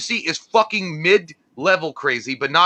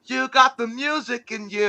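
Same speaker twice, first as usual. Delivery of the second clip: laughing mock song; 6 semitones higher, 4 dB quieter, slower than usual. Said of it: "It would be like".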